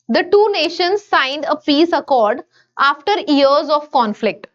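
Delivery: very slow, word by word, for students to write; slow dictation. Shown as a demonstration. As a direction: read each word out slowly so they can copy it. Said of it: "मैं sentence आपके लिए पढ़ती हूँ". (धीमे धीमे शब्द-दर-शब्द पढ़ना)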